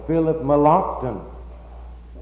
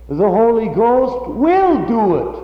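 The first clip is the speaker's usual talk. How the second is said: mock quote; 8 semitones higher, 5 dB louder than usual. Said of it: "he put all the emphasis on that word will".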